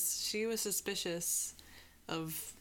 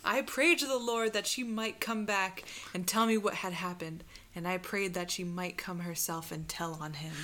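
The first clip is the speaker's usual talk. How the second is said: earnest pleading witness; Mary Heister; 4 dB louder than usual. Acted. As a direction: testify with devout conviction. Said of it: "Anna Marie, Mary Heister".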